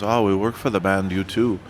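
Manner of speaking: imitating a roadie's thick Irish accent. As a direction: put on an Irish accent for the quote. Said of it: "in the thickest of Irish accents".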